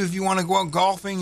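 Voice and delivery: golfing given a little extra weight; stress on golfing. Real, not acted. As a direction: lean lightly into the word golfing. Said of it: "I emphasize the word golfing".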